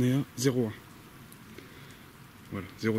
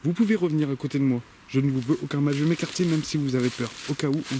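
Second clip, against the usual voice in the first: raised voice, coaxing spirits; calling out; 3 semitones higher, 5 dB louder than usual. Real, not acted. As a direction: call into the dark woods. (appel à voix haute)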